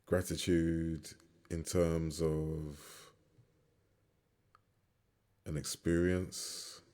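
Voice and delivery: calm, measured meditation lead with long pauses; guided meditation. Real, not acted. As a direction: guide them gently through each breath, leaving space between phrases.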